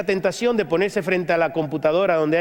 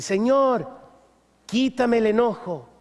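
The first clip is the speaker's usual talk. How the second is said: raised, whiny plea to God; pleading to God; 3 semitones higher, slower than usual. Acted. Worshipper begging God to take anger away, pleading. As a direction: beg the Lord like a child. Pleading prayer vs scripture reply.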